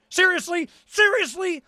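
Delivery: rising disbelief, voice jumps up; seriously, really?; incredulous. Real, not acted. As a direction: ask it like you can't believe it. Incredulous repeated question.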